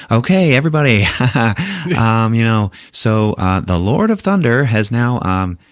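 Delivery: high, hammed-up announcer voice; Grand Master announcing. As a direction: boom it over the city loudspeaker like a showman. Grand Master over the loudspeaker.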